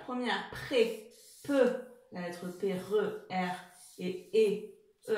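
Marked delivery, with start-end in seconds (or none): 0.0-1.1 pré said slowly and apart; syllable split. Shown as a demonstration. Teacher breaking prévoir into syllables for pupils. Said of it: "deux syllabes".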